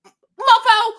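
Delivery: loud, high, laughing mofo; laughing outburst. Real, not acted. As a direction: blurt it out through a laugh. Incredulous outburst at controller.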